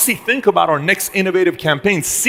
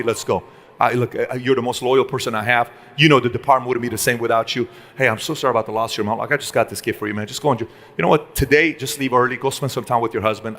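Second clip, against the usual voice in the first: sincere apology; 4 semitones lower than usual. Pretend. Boss apologises to upset employee.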